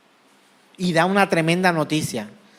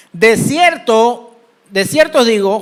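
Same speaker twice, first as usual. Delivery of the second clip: slow, emphatic declamation; scripture reading; 3 semitones higher, 4 dB louder, slower than usual. Acted. Preacher reads John to congregation, declaimed emphatically. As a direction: proclaim it from the pulpit. Dice la Escritura.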